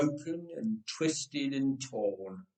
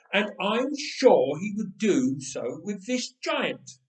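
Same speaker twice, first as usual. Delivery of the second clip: earnest boast; 4 semitones higher, 5 dB louder than usual. Acted. David boasts his courage to king.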